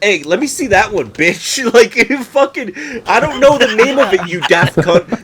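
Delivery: loud, jokey aggressive demand; mock rude demand. Imagined customer bullying a clerk, loud mock aggression. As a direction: shove the words at her. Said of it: "I would be like".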